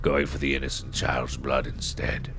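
high creaky granny telling of a monster; old woman voice. Acted. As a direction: spin a spooky tale like a village crone. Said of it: "Tamara, the old woman".

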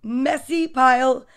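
put-on lightly animated reading to children; story narration. A narrator's reading. Storyteller recounts mother and son sorting toys, animated narration. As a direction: read it out with punched key words. Reads picture book aloud.

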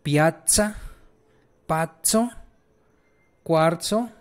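Piazza, pazzo, cuarzo with firm ts; strong double z. Shown as a demonstration. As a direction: model each of Piazza, pazzo, cuarzo with a rising tune. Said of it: "con doble Z".

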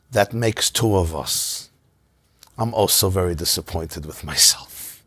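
slow, near-whispered admission; hushed and unhurried self-rebuke. Retold or imitated. Rebbe's calm humble reply.

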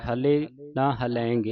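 ਹਲੇ and ਹਲੈਂਗੇ with a single, undoubled l; don't double the l in ਹਲੇ ਨਾ ਹਲੈਂਗੇ; without adhak. Shown as a demonstration. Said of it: "ਅਦਕ ਤੋਂ ਰਹਿਤ ਬੋਲਣਾ ਹੈ".

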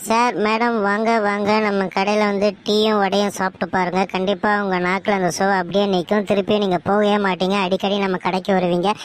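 inviting stall-keeper's patter; street vendor pitch. Acted. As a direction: call passers-by over to the stall. Calling customers to food stall. (கடைக்காரர் கூவி அழைப்பது)

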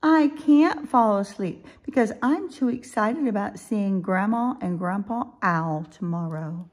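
put-on high, loud childlike voice settling slightly; excited little owl. Little Owl is too excited about seeing grandparents, high eager voice. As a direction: gush the reason as a small child.

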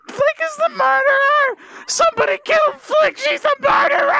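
frantic repeated accusing shouts; yelling accusation. Real, not acted. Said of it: "I'm yelling at the top of my lungs".

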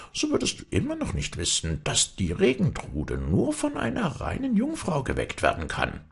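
high, squeaky goblin. A narrator's reading. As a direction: pitch up into a tricky little kobold. Kobold voice in fairy tale.

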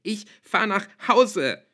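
high, slow, loud hysterical yell; screaming. A narrator's reading. Girl screams at father through door, voice overwrought. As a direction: scream it with each word stretched. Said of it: "schrie ich".

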